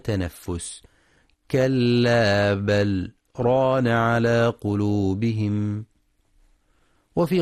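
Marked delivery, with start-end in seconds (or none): 1.5-5.8 كلا بل ران with a brief silent break after بل; slight pause on the lam. Shown as a demonstration. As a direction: stop briefly after بل without taking a breath. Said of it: "الإتيان بسكتة لطيفة على اللام". (سكتة لطيفة على لام بل دون تنفس)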